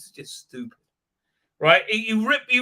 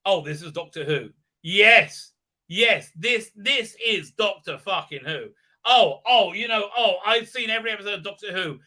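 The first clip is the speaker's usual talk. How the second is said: mock fan; 3 semitones higher than usual. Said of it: "who's watching this going".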